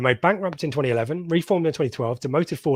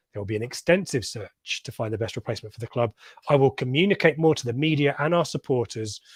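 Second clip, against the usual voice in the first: statement read. Acted. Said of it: "Let me read you again the statement".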